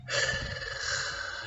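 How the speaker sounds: long soft exhaled hiss of air; drawn-out breath noise. Shown as a demonstration. Teacher demonstrating ways of stressing help, long airy breath. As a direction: draw out the breath before the word. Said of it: "Would I stress it by saying".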